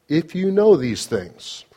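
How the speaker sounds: slow down and lean on "know"; preacher underlining the word "know" for the congregation; underline know. Shown as a demonstration. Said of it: "underline that word "know".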